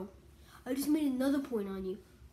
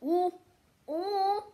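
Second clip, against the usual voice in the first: each ooh climbs higher; rising excited ooh; 8 semitones higher, much slower than usual. Real, not acted. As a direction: build the excitement. Excited building reaction.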